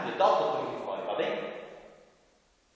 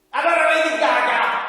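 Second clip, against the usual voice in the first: excited high puppet voice; 11 semitones higher, 10 dB louder than usual. Acted. Puppet's cheeky request.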